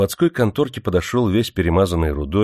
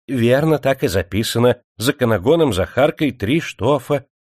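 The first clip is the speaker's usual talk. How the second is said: fawning clerk, eager to please; the clerk sycophantically confirms the entry; obsequious; 5 semitones higher than usual. Acted. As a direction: agree slavishly with the boss. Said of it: "угодливо подтвердил он".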